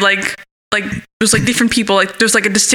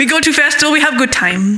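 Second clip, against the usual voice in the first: lightly faked Swedish foreigner's accent; mock Swedish accent; 3 semitones higher than usual. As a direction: badly do a Swedish friend's accent. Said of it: "He's Swedish".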